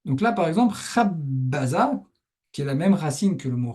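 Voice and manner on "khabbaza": slow "khabbaza" with a held double b; b redoublé. Shown as a demonstration. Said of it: "beaucoup de lettres qui se redoublent comme ça". (« khabbaza » lent, b bien redoublé)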